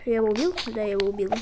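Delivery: hoarse, rough voice; gravelly voice. Real, not acted. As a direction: talk through a scratchy throat. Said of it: "Извините за голос".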